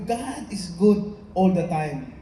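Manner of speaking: slow, drawn-out church call, stress on "good"; slow proclamation calling for an amen; preacher's call. Acted. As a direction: draw "God is good all the time" out slowly to rally the room.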